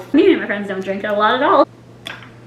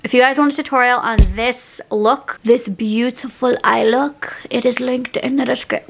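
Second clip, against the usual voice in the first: measured, put-on promo delivery; odd presenter voice. Real, not acted. Vlogger plugging her eye look tutorial, odd presenter voice. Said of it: "why am I talking like this?".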